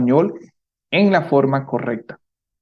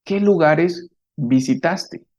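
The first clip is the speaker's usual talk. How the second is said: slow model question; 2 semitones higher than usual. Shown as a demonstration. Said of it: "la pregunta es".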